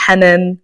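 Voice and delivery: Hanan with fronted vowels, like HEN-en; Arabic name variant. Shown as a demonstration. Host listing accepted versions of her name, fronted "Hanan". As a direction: say "Hanan" with a's near e. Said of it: "I don't really mind how it is pronounced".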